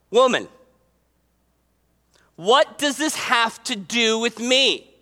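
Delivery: lightly gruff, deliberate delivery. Acted. Jesus answering his mother's request, gruff. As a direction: put the question slowly, mildly gruff. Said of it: "it's very gruff".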